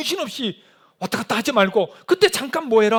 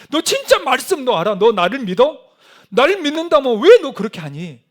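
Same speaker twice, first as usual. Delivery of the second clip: loud, raised, pressing questions; challenging reproach; 3 semitones higher, 6 dB louder than usual. Acted. Preacher voicing God challenging a believer, loud reproach. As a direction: confront them forcefully, demanding an answer.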